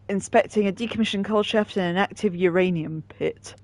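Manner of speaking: hiccup-broken words. Real, not acted. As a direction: talk through the hiccups. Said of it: "got the hiccups now".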